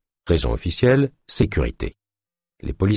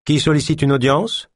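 a different, higher voice; new voice, a bit higher; other voice; 6 semitones higher than usual. Acted. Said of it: "demanda une autre voix".

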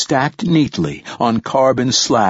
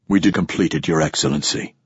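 thick voice; 4 semitones lower, faster than usual. Acted. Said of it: "his voice thick".

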